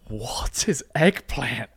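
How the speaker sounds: slow, drawn-out disbelieving question; retold bafflement. Boyfriend recalling being offered eggplant, slow mock bafflement. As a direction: stretch each word in mock confusion.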